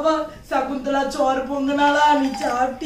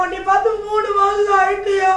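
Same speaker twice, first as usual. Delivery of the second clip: crying out; 3 semitones higher, 5 dB louder than usual. Acted. Mother reunited with long-absent son.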